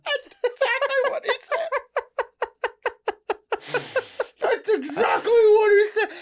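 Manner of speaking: squealing high through laughter; laughing hard. Real, not acted. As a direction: crack up while talking. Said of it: "laughing hard at the impression".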